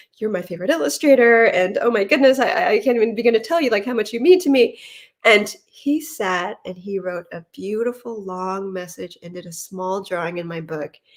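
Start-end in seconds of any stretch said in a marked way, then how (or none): 0.2-4.8 loud, stumbling stutter, tripping over words. Retelling meeting a favorite illustrator while overcome: imitating own past stuttering. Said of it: "I was stuttering out something like".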